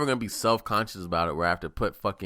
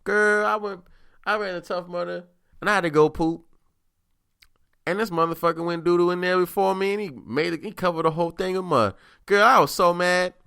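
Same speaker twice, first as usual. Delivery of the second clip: put-on much higher, louder girlfriend gossip voice; gossiping woman; 9 semitones higher, 7 dB louder than usual. Woman retelling to her friends how mad she was, high and loud. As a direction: play a sassy woman ranting to her girlfriends. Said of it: "tell that story to her friends".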